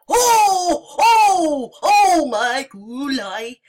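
high, loud panicked cries; terrified horror victim. Real, not acted. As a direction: cry out in fright.

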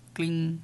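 light, soft little "cling" noise; imitated clink. Real, not acted. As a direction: make a small soft metallic ting. Imita el sonido de la bolita. (imitando un tintineo suave)

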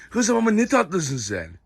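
slow, tender pet talk; cooing to the dog. Real, not acted. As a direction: melt over how sweet she is.

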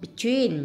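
"between" stressed on TWEEN; slow "between", leaning on its last syllable; stress on second syllable. Shown as a demonstration. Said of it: "nhấn âm hai". ("between" nhấn mạnh âm tiết thứ hai)

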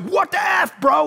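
put-on a young guy squaring up, yelling; youthful angry shout. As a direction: pick a fight with him. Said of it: "I was like".

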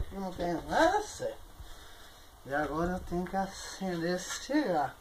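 put-on tipsy, rambling drunk monologue. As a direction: slur like a happy drunk. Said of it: "Não tô bêbado".

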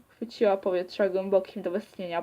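usual speaking voice

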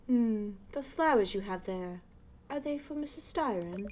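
a hint of a proper British neighbor; posh British. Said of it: "like, a posh British voice".

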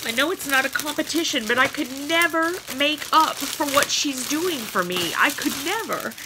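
high, choked-up rush of gratitude; tearful. Real, not acted. Telling viewers she can't match her friend's kindness, tearful. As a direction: pour out thanks while fighting real tears. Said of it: "I can't not cry".

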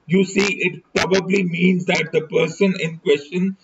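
measured audiobook reading; story narration. A narrator's reading. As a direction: read the novel aloud in deliberate, separated phrases. Reads a detective novel aloud.

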